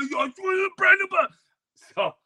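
high, slow, swearing it; mock solemn oath. Kid swearing an oath to Jeffrey, high and slow. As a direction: swear on the ball grandly. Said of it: "I'm like".

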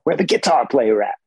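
a light take on a singer's raspy call. Retold or imitated. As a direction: toss it out like a soul legend, lightly. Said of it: "the voice of James Brown".

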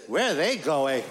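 lightly voiced little son, a laugh in it; a hint of a small boy asking; kid voice. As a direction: ask it like a curious little kid. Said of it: "my son goes like this".

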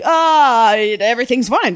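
put-on exasperated teen. Daughter on phone telling dad to chill, exasperated. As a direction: imitate a teen brushing off a parent.

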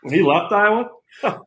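lightly voiced coach impression, loose and filler-laden; Kirk Ferentz. Player as his own coach describing himself, lightly imitated coach voice. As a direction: size up a player as his coach would, in short bursts. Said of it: "Coach Ferentz, just, uh, run us down".

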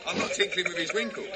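giggling through the line; laughing. Real, not acted. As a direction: say it while laughing. Laughing wordplay.

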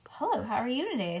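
quick nervous hello; nervous greeting. Acted. Junie B. caught by the teacher, quick and nervous. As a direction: rush the greeting, a touch nervous. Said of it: "I said in a kind of nervous voice".

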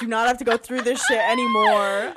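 fast, shouted plea; exasperated shout. Real, not acted. Co-host pleading with the writer, fast exasperated shout. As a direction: beg the heavens to fix this.

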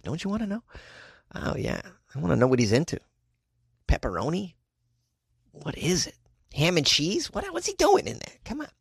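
usual speaking voice

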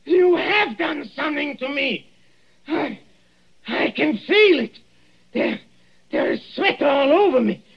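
high strained panic, choking; rasping strained mutant. Acted. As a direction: gasp it out as the throat closes. Poisoned man chokes in panic.

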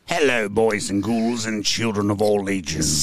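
jack o lantern voice. Pretend. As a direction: draw it out like a carnival ghoul. Spooky host greeting the audience.

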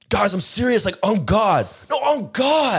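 high-pitched mock outrage of a worked-up kid; imitating an angry kid. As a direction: mimic a kid insisting furiously, voice shooting up high. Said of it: "He's so angry. He was so mad".

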